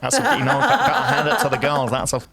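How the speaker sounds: put-on northern accent. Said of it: "Is that your northern accent?".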